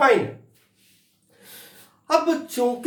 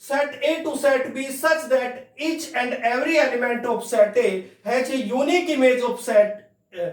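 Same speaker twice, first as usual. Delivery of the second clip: very slow, word by word like dictation; dictation pace; 3 semitones higher, much slower than usual. Shown as a demonstration. Teacher dictating the formal definition, very slowly. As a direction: read the definition out so they can write it. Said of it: "definition बोलती है".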